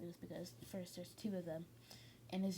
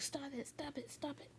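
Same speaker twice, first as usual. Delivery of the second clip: mock frightened begging in a raised voice; scared; 7 semitones higher than usual. Sludge villain begging Deku to stop, mock scared. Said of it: "like, scared of Deku".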